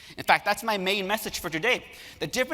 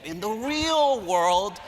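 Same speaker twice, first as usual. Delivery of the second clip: slow, higher mock-lecturing "In the real world"; mocking professor; 5 semitones higher, 3 dB louder, much slower than usual. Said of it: "They love it when professors say to them".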